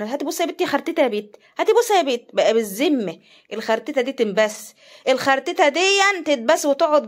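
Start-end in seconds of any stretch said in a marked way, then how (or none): 0.0-2.2 quick, higher teasing imitation of an aunt asking for a kiss; lightly voiced mocking aunt; imitating a relative. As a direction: rattle it off fast and rising like a pushy aunt. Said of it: "لا، كان".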